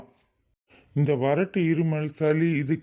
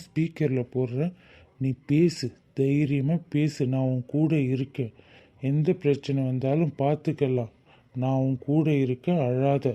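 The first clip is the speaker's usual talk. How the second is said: reassuring. Acted. Comforting frightened Madhu.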